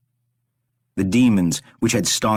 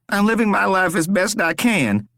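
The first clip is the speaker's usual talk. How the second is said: strained denial; 12 semitones higher than usual. A narrator's reading. Rory denies his suffering to his captor, strained. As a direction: push the words out through a strained smile.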